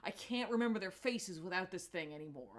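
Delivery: a mild hint of Quill's panic; retold freak-out. Quill panicking to Gamora about losing his family's faces, mildly anxious. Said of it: "he starts freaking out".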